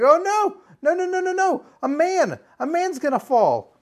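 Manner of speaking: very high, loud panicked cry; terrified and excited. Retold or imitated. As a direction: shriek as if the man will fall. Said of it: "like I'm all excited and also terrified".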